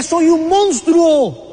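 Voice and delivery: slow, hushed, broken admission, slightly retold; tearful confession. Preacher quoting a weeping man's confession, slow and tearful. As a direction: let the words fall out slowly, as if ashamed. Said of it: "llorando me decía".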